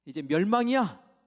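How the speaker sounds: booming, drawn-out declaration of doom; thunderous divine pronouncement; loud proclamation. Acted. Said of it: "라고 선포하시면서".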